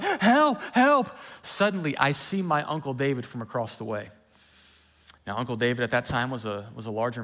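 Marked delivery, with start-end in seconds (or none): 0.0-1.2 put-on high shouted "Help, help!" like a drowning boy; retold cry for help. Preacher reenacting calling for help while drowning as a child. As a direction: call out loud and high for rescue. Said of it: "as we're screaming, going".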